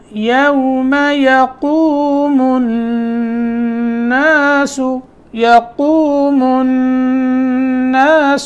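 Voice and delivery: یقوم with a thick heavy qaf, slowly. Shown as a demonstration. Teacher showing the heavy qaf, slow. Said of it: "قاف موٹا".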